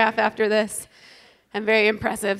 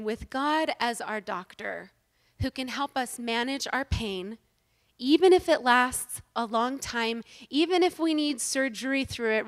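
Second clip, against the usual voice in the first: sincere. Real, not acted. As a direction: ease them through it gently. Slow sincere sermon passage.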